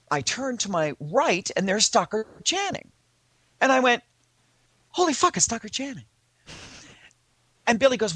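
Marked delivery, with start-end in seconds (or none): 4.9-6.0 higher-pitched awed outburst; starstruck exclamation. Retold or imitated. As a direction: blurt it out in starstruck shock. Starstruck reaction in retold story.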